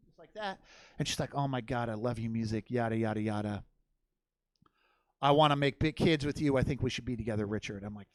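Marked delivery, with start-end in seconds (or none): 1.3-7.8 a low, breathy-free lovestruck murmur, only lightly played; mock gushing to the guitarist, low and soft; low swooning voice.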